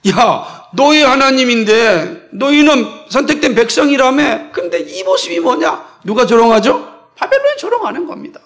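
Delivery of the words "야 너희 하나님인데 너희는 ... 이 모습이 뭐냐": acted-out scornful challenge; mocking taunt. Onlookers jeer at the suffering chosen people, mocking. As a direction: jeer at them, raised pitch easing off at the end. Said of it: "조롱합니다".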